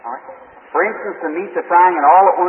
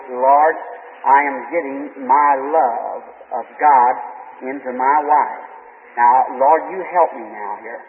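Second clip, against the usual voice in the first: hushed prayer; 5 semitones lower, slower than usual. Retold or imitated. Silent prayer in his heart.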